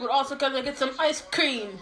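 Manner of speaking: lightly put-on Jamaican accent. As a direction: tropical Jamaican cousin voice, playful. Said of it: "like, Jamaica".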